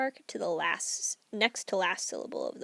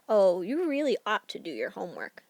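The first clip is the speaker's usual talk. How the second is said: gentle suggestion; 4 dB louder than usual. Shown as a demonstration. Teacher to student, mild suggestion. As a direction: coax them, don't order. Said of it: "we're not giving a suggestion like".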